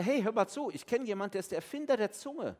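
God grinning as he shuts down the excuse; playful reassuring God, lightly voiced; cheerful God. God voiced answering Moses.

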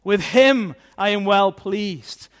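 loud, slow, exultant proclamation; bursting with praise. Acted. Father praising his Son at the baptism, bursting with praise. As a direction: burst out proudly, drawing out each phrase. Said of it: "the Father will just burst out in praise".

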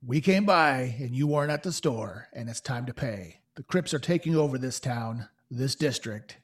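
a hint of a threatening ruffian; lightly voiced thug. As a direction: press him for money, a touch of menace.

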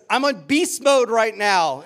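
slow, loud, high growl like a little beast; growly beast voice. Retold or imitated. Six-year-old daughter explaining to dad on the field, slow loud growl. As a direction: growl it out like a kid playing monster. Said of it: "then she'd growl at people".

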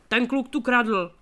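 loud, slow accusing voice of a rich merchant; slow, loud accusation of theft; angry accusation. A narrator's reading. (hlasité rozhořčené obvinění)

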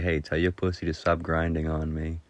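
deadpan mock complaint; straight-faced. Complaining to a friend about the cat, straight-faced. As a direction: complain evenly, as if serious. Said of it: "and with a straight face".

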